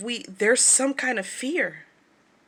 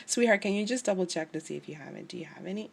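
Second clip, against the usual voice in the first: sweet retold request; 5 dB quieter, faster than usual. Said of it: "I was just like".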